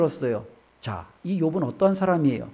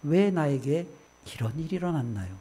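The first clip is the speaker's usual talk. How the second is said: plaintive plea; 4 semitones lower, 7 dB quieter than usual. Retold or imitated. Job asking God why this happened, softly pleading. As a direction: ask God gently, fading away. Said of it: "욥의 질문은 뭐예요?".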